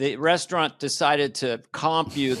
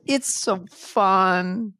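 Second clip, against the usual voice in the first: imitating mom; 3 semitones higher, much slower than usual. Mom's reaction imitated.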